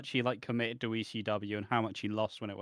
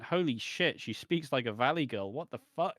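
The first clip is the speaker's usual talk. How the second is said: higher, disbelieving outburst with a laugh; mock shock; 5 semitones higher, 4 dB louder than usual. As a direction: act stunned by the reveal. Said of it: "everybody just went".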